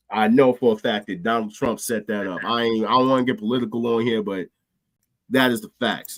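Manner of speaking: wheezy sick voice; talking through a cold, wheezing. Real, not acted. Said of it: "in my sick voice that you guys can probably hear me wheezing".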